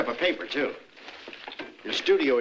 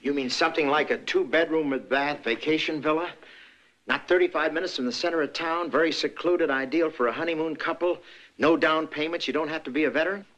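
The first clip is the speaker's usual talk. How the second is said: ad pitch; 4 semitones higher than usual. Acted. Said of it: "You sound like advertising".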